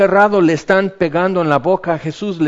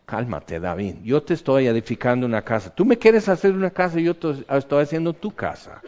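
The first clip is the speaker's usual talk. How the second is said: calm soothing God; 2 semitones lower, 4 dB quieter than usual. Acted. God soothing angry David, softly and calmly. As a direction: gently settle an upset friend.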